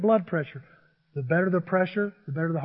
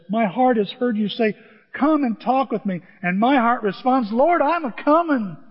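eager reply to God; 4 semitones higher, 4 dB louder than usual. Acted. Preacher voicing the psalmist's heart.

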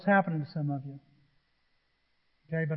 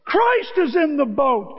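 loud, slow triumphant shout; shout of victory; 7 semitones higher, 6 dB louder, slower than usual. Acted. Disciples crying out in victory, a loud slow shout. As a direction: cry it out like a victory call. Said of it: "goes the shouts".

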